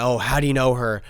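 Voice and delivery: loud, panicky retelling of a friend; mimicking his panic. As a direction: play the freaked-out friend, talking loud and fast. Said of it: "she said".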